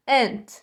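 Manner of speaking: "Aunt" with A sounding like E, silent U; careful pronunciation. Shown as a demonstration. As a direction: model "Aunt" as "ént". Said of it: "Presta atenção na pronúncia desta palavrinha". ("Aunt" com som de E, U mudo)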